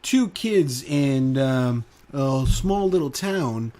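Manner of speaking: news anchor voice. Pretend. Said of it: "I wish I hear that in the news".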